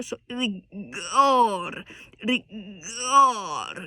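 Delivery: pinched, squeezed demo of the bad way; constipated-sounding. Shown as a demonstration. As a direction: show the strained, tight sound to avoid. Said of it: "it sounds a little bit constipated".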